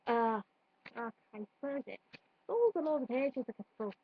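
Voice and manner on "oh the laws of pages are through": attempted Scouse drifting into Irish; lightly lilting, muddled Liverpool-Irish accent; Liverpool accent slipping Irish. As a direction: put on Liverpool, let it slide towards Irish. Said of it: "now I'm turning Irish".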